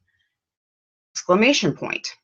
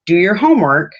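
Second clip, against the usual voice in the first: firm command; 4 semitones higher, 6 dB louder than usual. Shown as a demonstration. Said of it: "So if I say".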